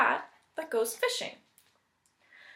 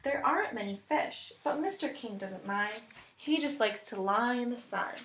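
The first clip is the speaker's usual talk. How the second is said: story narration. Acted. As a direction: read it like a picture book to children. Teacher reads story aloud.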